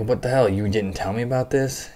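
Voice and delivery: imitating an angry boss, half-hearted yell; retold outburst. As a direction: toss off an indignant what the hell. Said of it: "he's like".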